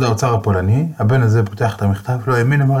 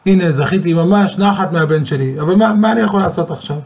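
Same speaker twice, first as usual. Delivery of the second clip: mock bitter outcry, higher and faster; bitter cry; 6 semitones higher than usual. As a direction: cry out from a heavy heart, mildly. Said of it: "זעק במר לבבו".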